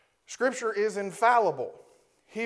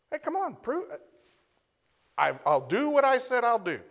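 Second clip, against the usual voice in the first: a lightly voiced God, higher, daring and inviting; 6 semitones higher than usual. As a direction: voice God's playful dare, a touch higher. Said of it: "God's daring us".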